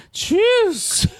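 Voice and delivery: high, slow drawn-out cheese; Jewish accent. Retold or imitated. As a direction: stretch it out in an old comic's accent. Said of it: "quite a Jewish voice".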